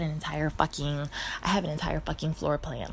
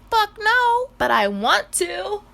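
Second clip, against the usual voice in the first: high, loud eager blurt; loud high excited answer; eager friend; 10 dB louder, slower than usual. Retold or imitated. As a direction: play a keen friend. Girlfriend answers about shrooms.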